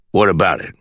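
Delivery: judge dropping to a serious voice. A narrator's reading. Judge warily answering the caller, low serious tone. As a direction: ask it soberly, voice brought down. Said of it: "in a different tone, his voice lower, serious".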